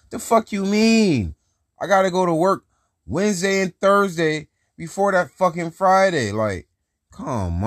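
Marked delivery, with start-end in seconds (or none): 0.1-6.3 high-pitched, incredulous protest; indignant. Real, not acted. Worker protesting a text about his late check, indignant. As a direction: fire back in exasperated disbelief, pitch way up.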